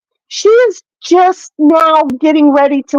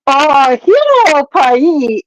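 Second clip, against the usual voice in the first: slow, drawn-out attempt at an Indian accent; badly faked Indian accent; botched Indian accent; much slower than usual. Shown as a demonstration. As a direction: try an Indian accent and miss. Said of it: "Indian accent".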